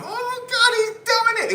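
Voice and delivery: imagine grabbing a friend and screaming with joy; pretend excited cry. Imagined friend being shaken, squealing in excitement. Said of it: "I'd be shaking him".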